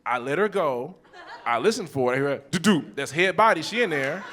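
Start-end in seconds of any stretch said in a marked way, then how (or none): 2.5-2.8 short two-beat landing noise; spoken bump-bump sound effect; imitated thud. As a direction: mimic a double bump.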